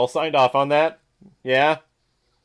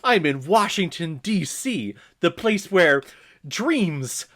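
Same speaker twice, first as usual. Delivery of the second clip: higher-pitched mock wholesome boy; gee-whiz kid; 4 semitones higher, slower than usual. Boy telling Mom about Washington, mock gee-whiz voice. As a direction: play an awestruck boy, pitched up.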